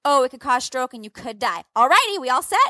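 lightly voiced casual surgeon, lifting high at the end; breezy doctor impression. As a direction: rattle off the risks like a routine formality. Breezy pre-surgery doctor, retold.

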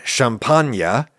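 champagne said the French way, sham-PAHN-yuh; French pronunciation. Shown as a demonstration. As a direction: give champagne an open AH and a final nyuh. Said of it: "that's how people in said wine region".

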